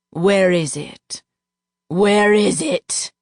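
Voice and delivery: demanding. A narrator's reading. Duke demanding the vial from narrator, slow forceful. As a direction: press harder each time.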